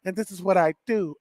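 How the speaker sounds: understated smooth-guy impression; Mississippi smooth voice. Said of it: "that's the Mississippi smooth voice".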